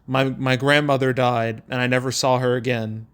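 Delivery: flat, dead delivery with no feeling; mock deadpan quote of a stiff movie line; emotionless monotone. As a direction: read it like a bored line reading. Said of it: "with no emotion at all".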